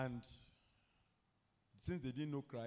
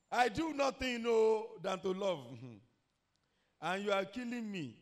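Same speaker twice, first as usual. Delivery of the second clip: acted crying plea; 6 semitones higher, 7 dB louder than usual. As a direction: plead in a wailing voice for your life. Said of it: "And she's crying and said".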